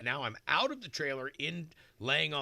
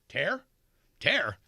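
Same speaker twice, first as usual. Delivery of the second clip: mock incredulous; 5 semitones higher, 6 dB louder than usual. Doctor quoted, mock incredulous repeat.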